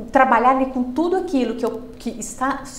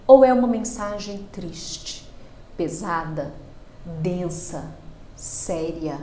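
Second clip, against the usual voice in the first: heavy serious demo; 4 semitones lower, slower than usual. Shown as a demonstration. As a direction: let the voice sink into sadness. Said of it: "vocês percebem que eu não mudo apenas o tom da minha voz".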